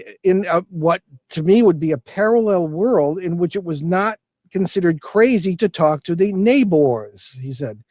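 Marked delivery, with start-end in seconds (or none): 6.3-7.4 "neighbors" with emphasis on the last syllable, "-bors"; imitated "neighbors", weighted on its second syllable; Gilbert's way of talking. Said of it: "Emphasis on the last syllable".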